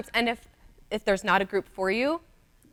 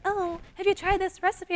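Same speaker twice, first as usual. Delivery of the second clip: higher-pitched, feigned casual question; mock-innocent plug; 8 semitones higher, 4 dB quieter than usual. Mimicking bloggers who hide that it's their recipe, mock-innocent. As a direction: imitate someone innocently recommending a recipe.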